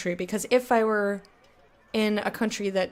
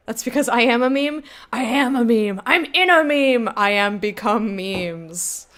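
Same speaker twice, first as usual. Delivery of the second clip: loud mock-grand proclamation, slowing at the end; hammed-up declaration; 5 dB louder than usual. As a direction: declare it with silly grandeur, drawing out the last words. Hammed-up joke about being a meme.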